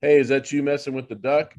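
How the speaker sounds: mock challenge, half-laughing; playful jab at an unseen presence; joking taunt. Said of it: "And I jokingly go".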